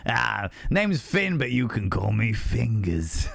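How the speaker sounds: slow, lightly voiced Cockney smoothie; a hint of a Cockney charmer introducing himself; half-hearted Cockney accent, low and slow; dodgy Cockney accent. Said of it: "a dodgy Cockney accent".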